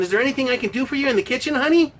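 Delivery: fast, sugary offer, pitch up on honey; hammed-up doting husband; mock sweet husband. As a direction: play the eager good husband, overly sweet.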